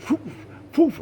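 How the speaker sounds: short puffs of breath; quick "poof" for darting birds; imitated whooshes. Birds scatter everywhere over the yard, imitated whooshes.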